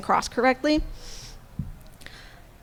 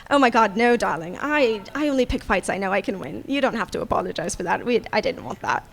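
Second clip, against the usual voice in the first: lightly voiced airy charmer, softer and hushed; charming Felix; 3 semitones lower, 4 dB quieter than usual. Felix brushing off the party, softer breezy lightly voiced charm. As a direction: purr it, breezy and amused, like nothing matters. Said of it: "just kinda laughs and go".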